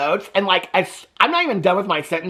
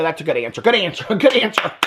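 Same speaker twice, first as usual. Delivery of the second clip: lightly voiced game-show cheering; game show contestant. Mocking parents like Family Feud players, playful cheering. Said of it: "Family Feud".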